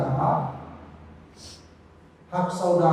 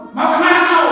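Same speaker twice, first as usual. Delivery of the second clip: "Mau kemana kau?" said higher and louder, friendly lift on kemana; kindly read question; 9 semitones higher, 7 dB louder than usual. Shown as a demonstration. A good-hearted reader hears the message friendly, higher and louder. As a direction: ask it brightly, as a kind reader hears it. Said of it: "yang membaca karena hatinya bagus".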